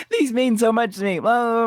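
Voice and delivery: high mock-earnest whine; mocking imitation. Imitating Amy about her family heirloom, mocking high voice. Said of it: "she's like".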